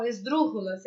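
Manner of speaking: "esdrúxulas" said the Spanish way, stress on "drú"; Spanish pronunciation. Shown as a demonstration. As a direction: pronounce "esdrúxulas" with a hard Spanish j sound for the x. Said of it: "é assim que faz a, a pronúncia".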